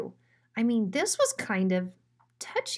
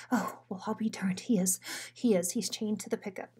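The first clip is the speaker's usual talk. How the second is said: whisper; faster than usual. Acted. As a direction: keep it down, he might hear. Hiding from Bruiser, hushed.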